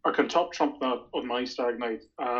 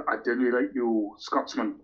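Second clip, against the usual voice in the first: put-on Geordie accent; slower than usual. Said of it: "you'll excuse my Geordie accent".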